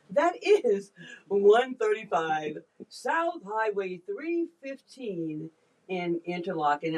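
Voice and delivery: slow, drawn-out radio announcer voice. Shown as a demonstration. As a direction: read the address like a DJ on air. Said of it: "I can't help but do the radio voice".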